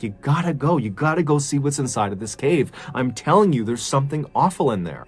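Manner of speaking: mildly urgent retold plea; lightly acted pleading, leaning on the urgency. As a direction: press them to act, insistent but contained. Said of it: "he began pleading with the police".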